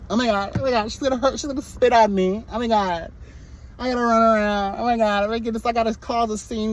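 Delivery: a hammed-up hysterical reality star; mocking impression. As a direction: ham up a frantic drama queen. Mocking castmate's panicked reaction.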